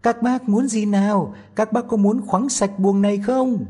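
put-on high, loud tiny-boy voice shouting up; a tiny boy calling out loud to the thieves; Tom Thumb asking loudly. A narrator's reading. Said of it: "hỏi thật to".

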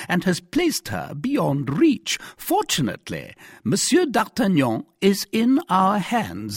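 high, loud, slow official reprimand; stern commissary. Acted. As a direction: lecture the prisoner from a height of authority. Commissary accuses Bonacieux.

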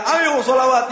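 calls out high and loud like a lead singer; rally the crowd to sing; imitated shout. Preacher imitating a singer's loud rallying call. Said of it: "Habib Syekhnya teriak-teriak".

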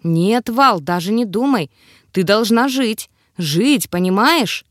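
plain reading voice

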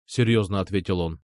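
ordinary delivery

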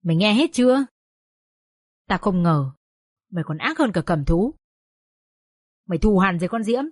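reproachful anger ending in a sharp cry; bitter scolding. Acted. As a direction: shame her with every line. Father berates daughter. (mắng nhiếc cay đắng)

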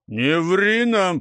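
slow, loud contemptuous "don't lie"; spat out. A narrator's reading. Elder Tseper spits scorn at the lying boys, slow and loud. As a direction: spit the words at the boys. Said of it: "плюнул Цепер".

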